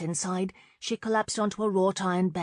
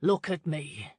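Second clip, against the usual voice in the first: demanding; 2 semitones lower than usual. Acted. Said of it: "he demanded".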